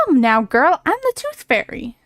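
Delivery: lightly put-on cocky fairy; a hint of a brash fairy calling out; Tooth Fairy voice. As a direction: play a pushy little fairy. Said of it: "I'm giving him that kind of voice".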